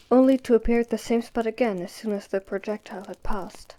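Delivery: barely voiced, like a shy ghost; ghostly whisper.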